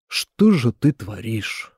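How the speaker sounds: slow, reproachful question; drawn out in reproach, lightly voiced. Father reproaching the daughter-in-law, slow and reproachful. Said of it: "В голосе укор".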